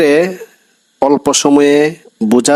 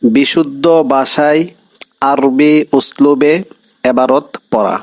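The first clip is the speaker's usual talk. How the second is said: বিশুদ্ধ ভাষায় আরবি উসলুবে said slowly, word by word, for dictation; slow it right down so students can write it; slow dictation pace for বিশুদ্ধ ভাষায় আরবি উসলুবে; slow repeat. Shown as a demonstration. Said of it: "আমি আবার বলছি".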